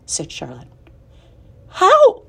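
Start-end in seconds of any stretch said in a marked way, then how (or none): 1.7-2.2 high, loud eager question. A narrator's reading. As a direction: ask it breathlessly. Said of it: "asked Wilbur".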